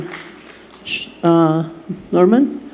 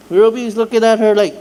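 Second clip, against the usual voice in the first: laughing while telling; 5 semitones higher, 3 dB louder than usual. Real, not acted. Retelling mom's church laugh.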